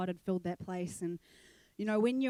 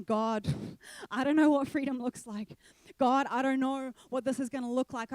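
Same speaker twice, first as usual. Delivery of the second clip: building louder to a pleading climax; surrender prayer; 3 semitones higher, 5 dB louder than usual. Retold or imitated. Surrendering everything to God at the altar, building to a loud plea. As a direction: pray with growing intensity.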